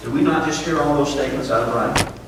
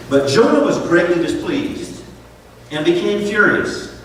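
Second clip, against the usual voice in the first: scripture reading; 2 semitones higher than usual. Acted.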